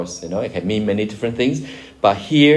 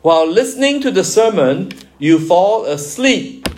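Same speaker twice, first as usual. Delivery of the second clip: slow example sentence; 8 semitones higher, 4 dB louder than usual. Shown as a demonstration. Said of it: "Another example".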